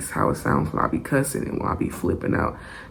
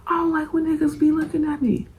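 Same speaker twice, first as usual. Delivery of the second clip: whispered quote; 10 semitones higher, faster than usual. Retold or imitated. Cousin explains why he punched.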